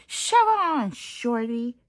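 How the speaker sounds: loud high yell; yelling bus. Acted. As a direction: bark it at the little truck. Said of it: "yelled the double-decker bus".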